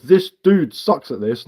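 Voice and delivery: slow, scornful read-back of the line; slow sneering quote; mocking quote. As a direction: drawl out his words to mock them. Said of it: "what you writ is".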